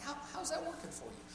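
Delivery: mean it, no sarcasm at all; a sincere, caring question; sincere, not sarcastic. Shown as a demonstration. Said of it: "don't be sarcastic about it, but mean it".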